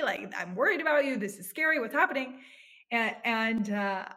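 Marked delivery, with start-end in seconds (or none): 0.0-2.4 higher-pitched, lightly worried father's voice; retold worry. Daughter retelling her father's scared reaction, mildly alarmed. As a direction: echo dad's mild alarm, voice climbing. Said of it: "and he said".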